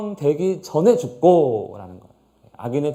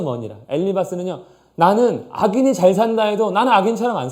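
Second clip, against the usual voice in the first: firm declaration; 4 semitones higher, 4 dB louder than usual. Acted. Eliphaz declaring and warning Job.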